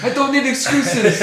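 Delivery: high, slow mock mafia boss; laughing through a mafia don act. Threatening the pinball machine as a mafia don, mafia voice.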